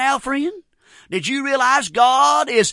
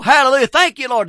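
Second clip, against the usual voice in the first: shouting praise; 3 semitones higher, 4 dB louder than usual. Retold or imitated. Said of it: "she went to shouting".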